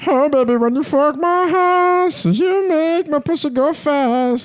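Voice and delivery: high, slow put-on singer voice; breathy high pop-star vamp; impression of a pop singer. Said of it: "we wanted to see a show with a singer".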